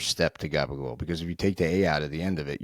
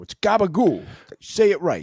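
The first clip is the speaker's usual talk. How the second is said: high, loud mock scolding; scolding parent; 12 semitones higher, 5 dB louder than usual. Host acting a parent forcing kids to say it, mock scolding. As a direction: correct the kid forcefully, hammed-up.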